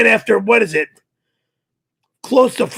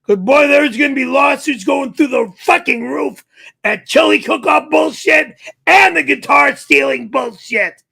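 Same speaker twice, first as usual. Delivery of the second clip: angry yell; 2 semitones higher than usual. Real, not acted. Yelling about lawsuits.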